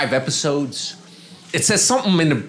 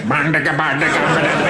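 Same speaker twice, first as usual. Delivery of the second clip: mock baby noise. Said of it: "she's trying to do my stuff".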